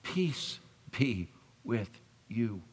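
slow, quiet blessing; calm Jesus. Retold or imitated. Jesus calming the quarrelling disciples, slow and gentle. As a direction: let it settle slowly over the room. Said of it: "Jesus coming in and saying".

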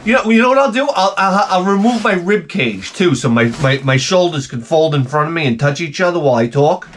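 a sarcastic husband snapping at his wife; sarcastic rant. Retold or imitated. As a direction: lay the sarcasm on thick.

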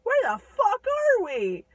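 high, loud bewildered yell; startled shout. Retold or imitated. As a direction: snap awake and shout in confusion. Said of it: "and he goes".

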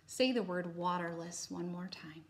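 unvoiced whisper, gentle; whispered prompt. Shown as a demonstration. Teacher whispering a repeat prompt to students.

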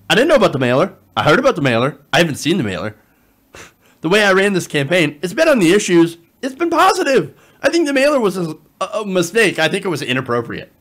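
hammed-up denial, loud and rising in pitch; mock a politician loudly protesting innocence; Andrew Cuomo. Politician denying he knew of the mailer, mocking imitation. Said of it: "Andrew Cuomo".

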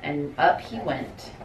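soft, slightly low picture-book narration; quiet storybook read-aloud; reading to children. A narrator's reading. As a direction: read a bedtime-style story to little kids.

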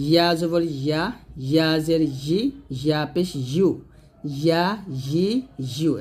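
"ইয়া" softly from mid-tongue. Shown as a demonstration. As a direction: glide "ইয়া" gently, never as a hamza stop. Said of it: "ইয়া জিহ্বার মাঝখান হতে নরমভাবে উচ্চারণ করতে হবে".

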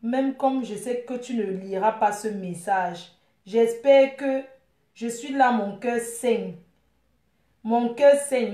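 lightly declaimed lover's lament; a touch of staged heartbreak; heartbroken message. Pretend. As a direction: recite a wounded love message, drawing out the ends.

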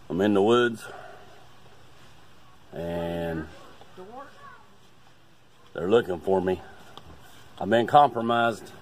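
agent radioing in from hiding; radio report, urgent and tense; over walkie talkie. Pretend.

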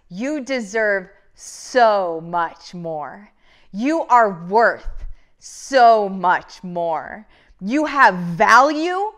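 slow, choked-up words fighting off real tears; holding back tears. Real, not acted. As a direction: let the voice catch as you push through. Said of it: "I'm trying not to cry".

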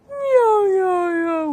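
loud high cat meows; loud high meowing. Shown as a demonstration. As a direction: meow big and high. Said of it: "get a little wacky and play around".

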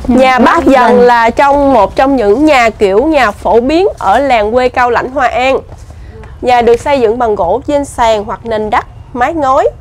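slow, measured board reading; reading aloud. Real, not acted. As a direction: read out the sign phrase by phrase, slowly. Reads an information board aloud. (đọc bảng giới thiệu chậm rãi)

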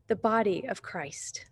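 soft reverent whisper, slow. Real, not acted. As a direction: breathe it out slowly, hushed. Reverent aside about the church.

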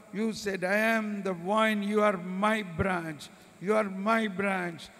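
pleading prayer fading out; fervent prayer. Acted. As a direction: pray fervently, then fade.

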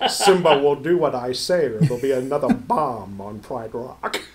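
low, sultry villain voice; sultry Scar voice. Acted. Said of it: "That's a sultry voice".

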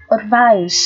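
"Advice" with "eye" in the second syllable; long I diphthong. Shown as a demonstration. Teacher demonstrates the diphthong to learners, clearly modelled. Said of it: "được phát âm là âm I".

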